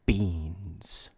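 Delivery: deadpan. Retold or imitated. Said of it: "Gen Z humor is".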